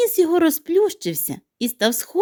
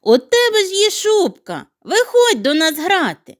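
high, loud eager call; eager invitation; 9 semitones higher, 4 dB louder than usual. Acted. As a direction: urge him to come play. Snowflake invites piglet.

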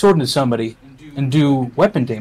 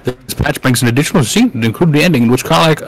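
put-on old wizard voice; 4 dB louder than usual. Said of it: "I like the voice that you do. That's like a perfect wizard voice".

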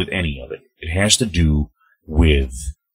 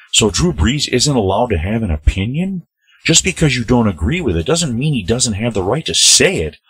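reading a fan's comment; 7 semitones higher than usual. Retold or imitated.

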